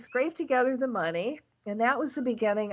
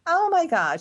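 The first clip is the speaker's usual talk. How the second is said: higher and louder Oh my God; exasperated outburst; 8 semitones higher, 5 dB louder than usual. Real, not acted. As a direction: burst out in disbelief. Exasperated exclamation about her daughter.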